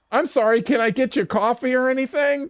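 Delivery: retold fake apology; mock politeness. Sarcastic offer to the strangers.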